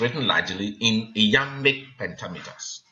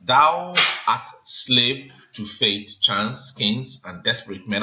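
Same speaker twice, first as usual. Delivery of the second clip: measured recital of the verse line; slow scanned reading; slower than usual. Shown as a demonstration. Teacher quotes line nine to class, slow and measured. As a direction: read the line slowly and evenly, marking each beat. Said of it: "that is".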